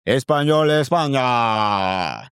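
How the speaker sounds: lightly voiced Spanish football announcer; FIFA announcer. Recalling a FIFA game's commentator, mild announcer voice.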